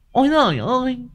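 stunned wife crying out on waking; dazed moaning. A narrator's reading. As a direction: moan again, half conscious. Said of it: "Thị đã ú ớ".

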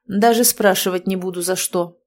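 ordinary delivery

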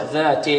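"ذات" ending in a slack "te"; wrong kasra. Shown as a demonstration. Teacher showing the slip, faulty vowel demo. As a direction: loosen the final i of "ذات" toward e. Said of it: "لا نقول".

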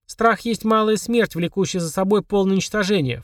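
echoing recitation. A narrator's reading. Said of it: "вторила ему Полина". (нараспев, как заклинание)

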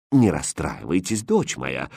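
low, soft, self-important king; pompous. Acted. King solemnly consoles his daughter, low and pompous. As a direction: speak with royal gravity. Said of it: "важно сказал король".

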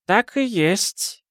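put-on a slow, high, elderly confirmation; old countess. A narrator's reading. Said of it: "кивнула графиня-мать".

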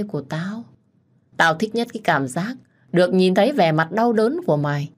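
gloating, sneering mockery; taunting. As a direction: rub the rival's failures in his face. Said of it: "nhìn Hùng đầy thách thức". (giọng chế giễu thách thức)

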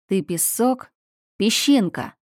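shouting. Acted. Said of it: "закричал Аминхотеп".

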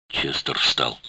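ordinary delivery

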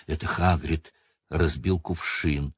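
slow, sighing words. Acted. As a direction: let it out on a sigh. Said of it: "вздохнула Гермиона".

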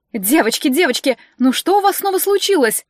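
a hint of a fussing high steward voice; fussy steward scolding the witches. Steward Dominika's voice.

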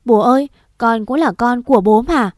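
crouched on the ground, pleading through tears; sobbing plea. Acted. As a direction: choke it out between hiccuping sobs. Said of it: "nói trong tiếng nấc".

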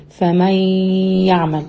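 فمن يعمل with the nun folded into the ya and a light nasal hum; nasal ghunna. Shown as a demonstration. Teacher showing the kept ghunna, nasal and even. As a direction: let فمن يعمل keep a touch of ghunna. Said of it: "فبقول إيه؟".

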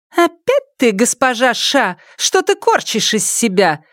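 high, taunting jeer; mocking tone. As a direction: sneer at her pretensions. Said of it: "издевательским тоном изрекла пятая сестра".

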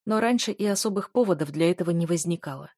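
usual speaking voice

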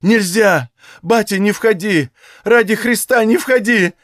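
high, loud frightened plea; ashamed sick woman crying out to her father-in-law; piercing cry. Acted. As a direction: scream to keep him out. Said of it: "пронзительно вскрикнула Наталья".

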